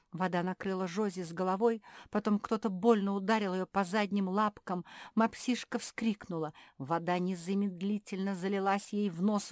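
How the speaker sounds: ordinary delivery, nothing marked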